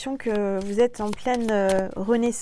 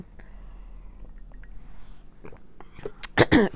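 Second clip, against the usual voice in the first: choking cough; 3 dB quieter than usual. Real, not acted. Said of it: "J'ai avalé de travers".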